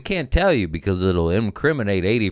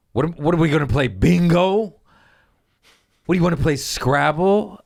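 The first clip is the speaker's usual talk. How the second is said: mock scoffing; 8 semitones higher, 6 dB louder than usual. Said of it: "you're just like".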